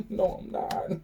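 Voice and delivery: high, airless giggle through words; breathless laughing. Real, not acted. Laughing breathlessly at how absurd the story is.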